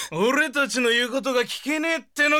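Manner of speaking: bully her with a shout; thug's threat. Acted. A thug yells at the barmaid, fast and angry.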